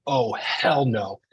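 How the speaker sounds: slow, loud imitated outrage; mock indignant holler; wife's fierce refusal. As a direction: belt it out, stretching every word. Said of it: "she got a lot of masculine energy".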